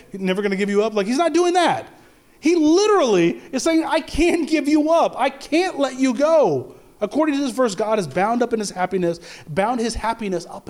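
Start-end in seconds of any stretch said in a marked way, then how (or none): 3.8-6.7 high, slow, emphatic declaration; preacher voicing God's refusal to let go; impassioned insistence. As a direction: draw it out high, as a heartfelt vow. Preacher voices God's insistent love.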